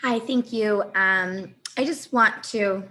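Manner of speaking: hoarse, fading voice; strained, hoarse speaking voice; losing voice. Real, not acted. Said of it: "I'm losing my voice right now".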